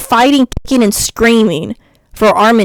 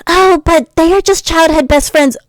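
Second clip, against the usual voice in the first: mock objection; 7 semitones higher than usual. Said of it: "imagined objector's quote".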